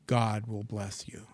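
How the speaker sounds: whispered, slow and soft. Real, not acted. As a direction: breathe the blessing out like a secret. Quiet blessing after pep talk.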